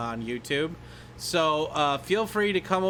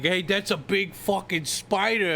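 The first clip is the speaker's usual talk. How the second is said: lightly voiced movie-comic impression; Martin Lawrence; 3 semitones higher than usual. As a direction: play the startled sidekick a little. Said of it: "fucking Martin Lawrence, where he's like".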